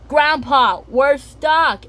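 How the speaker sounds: put-on high, loud little girl calling; high child voice. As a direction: call out like a stuck kid. Peppa calling for help.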